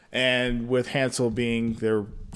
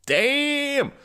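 surprised damn; 11 semitones higher than usual. Real, not acted. Reacts to story.

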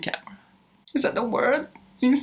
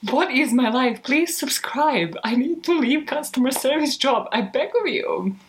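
hammed-up begging, slightly raised pitch; playful melodramatic despair; mock-dramatic plea. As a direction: plead as if it's all too much. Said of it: "stop making it dramatic".

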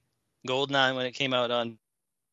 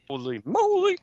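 whispered surprise; 11 semitones higher, 3 dB louder than usual. Real, not acted. Amazed at the trivia.

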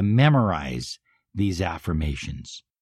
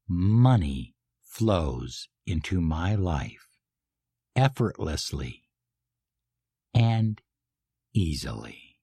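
felt affirmation. Shown as a demonstration. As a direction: savour each word slowly. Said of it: "Emotionalize it. Feel it. Believe it".

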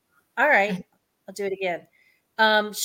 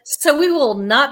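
laughing; 5 semitones higher, 7 dB louder, slower than usual. Real, not acted. Guest laughs at vanished recording.

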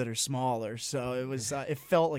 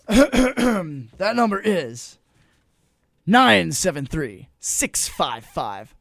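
slow deliberate read; 3 semitones higher, 9 dB louder, slower than usual. Acted. Reading out phone number.

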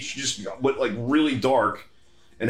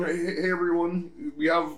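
Mark Zuckerberg voice; 6 semitones higher than usual. Retold or imitated. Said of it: "I can't do a good Mark Zuckerberg".

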